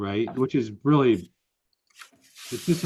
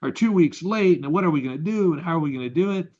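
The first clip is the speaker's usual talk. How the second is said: mock panic over a late shipment; upset employee; 4 semitones higher than usual. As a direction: play the flustered worker. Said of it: "He's like".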